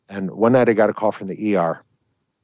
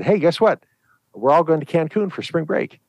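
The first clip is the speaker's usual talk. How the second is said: higher, bubbly mock teen announcement; excited teen; 8 semitones higher than usual. Teen tells mom about Cancun trip, excited higher voice. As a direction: gush the news like a thrilled teen. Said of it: "daughter came up to her and said".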